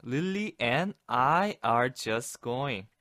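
very slow, trailing "Lily and I are just going"; drawn-out hesitant. Shown as a demonstration. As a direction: stretch it out, hesitant. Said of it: "trailing explanation". (머뭇거리며 아주 느리게)

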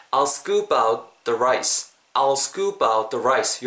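"I'll scoop out the rice" slow, with I'll as au and scoop-out linked; linked model phrase. Shown as a demonstration. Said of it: "요렇게 발음해 주시면". ("I'll scoop out the rice"를 '아우 스꾸빠웃'으로 천천히 연결)

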